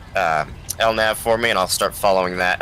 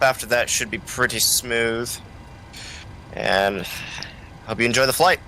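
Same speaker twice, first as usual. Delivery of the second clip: pilot over the radio. Pretend. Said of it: "I'm gonna do the announcement".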